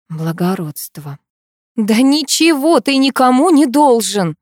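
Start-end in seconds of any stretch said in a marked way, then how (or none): 1.8-4.4 slow, loud, much higher outcry; shouting out. Acted. Karina cries out to her friend, loud and high. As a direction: fling the words at him. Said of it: "выкрикнула я".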